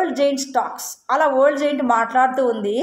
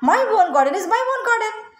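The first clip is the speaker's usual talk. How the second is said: much higher, slow giant voice; selfish giant; 8 semitones higher, much slower than usual. Acted. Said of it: "ఏమంటుంది తెలుసా?". (స్వార్థపరుడైన రాక్షసుడు, ఎత్తైన నెమ్మది గొంతు)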